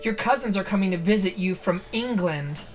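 dramatic story narration. A narrator's reading. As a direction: read it like a horror trailer. Reads the book's opening aloud.

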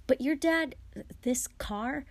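high, loud astonished burst; surprised question. Acted. Harry asking Fred about the flying car, astonished. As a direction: gasp it out in disbelief.

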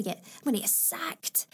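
whispered, imitated worry; a hushed mock dread. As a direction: breathe it out as a frightened aside. Acted panicked thought, whispered.

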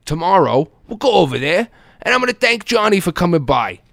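high, firm, fed-up dad; exasperated. Retold or imitated. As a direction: shut the argument down. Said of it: "my father's like".

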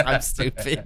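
slight dopey put-on voice; impression of Davey. To friends, repeating the Davey impression, lightly dopey. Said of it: "Why do you sound like that".

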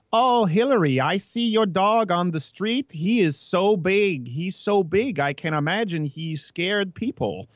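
put-on high, slow Asian-accented English; put-on Asian accent with careful cadence; imitated Asian accent. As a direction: mimic an Asian accent, stretching the words. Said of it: "she has that accent".

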